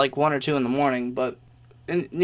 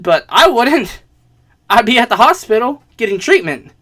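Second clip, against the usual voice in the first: retold heated protest, louder on key words; exasperated pleading; 2 semitones higher, 5 dB louder than usual. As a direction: argue your case in mock exasperation. Retold argument with hospital-transport refusers.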